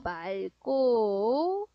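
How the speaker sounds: "맑고" drawn out very slowly as [말꼬]; demonstrated pronunciation. Shown as a demonstration. Teacher showing the class that "맑고" sounds as 말꼬, very slowly articulated. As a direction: hold each syllable of "맑고", sounding the ㄹ: 말-꼬. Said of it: "이것도 발음이 어떻게 되는가?".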